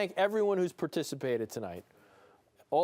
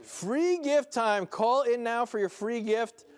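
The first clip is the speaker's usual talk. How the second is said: slow, loud, much higher "Free gift time"; hyped-up announcer; 6 semitones higher, 3 dB louder, slower than usual. Acted. Host repeating the line on request, hyped. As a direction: sell it like a TV promo. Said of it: "I want you to say".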